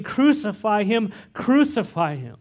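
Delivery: mild mock mob shout; crowd shouting. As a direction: shout "Crucify him" like the mob, easing off at the end. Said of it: "but they kept shouting".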